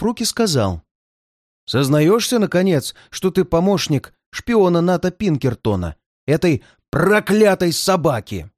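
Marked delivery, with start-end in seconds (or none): 1.7-8.5 sneering pirate interrogation; mustache twirling villain. Acted. Bandit interrogates captive Bob. (злодейский голос)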